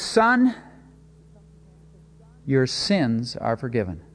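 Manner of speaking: gentle and slow, a calm blessing; tender. Retold or imitated. Jesus speaks to the man on the mat, tender and slow. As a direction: give it slowly and kindly, like a father.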